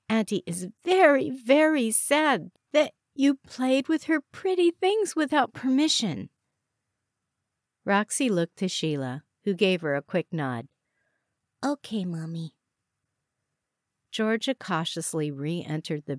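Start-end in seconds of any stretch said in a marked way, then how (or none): 0.1-6.3 put-on mother to toddler. A narrator's reading. 11.6-12.5 put-on small, soft toddler voice; meek little girl obeying Mommy; little child. A narrator's reading. Three-year-old answers her mother.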